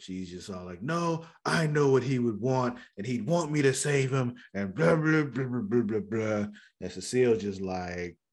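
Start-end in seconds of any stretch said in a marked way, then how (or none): 0.8-6.5 higher-pitched protest, imitating her; lightly acted insistent refusal; mock denial. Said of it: "Caitlin doesn't wanna believe it".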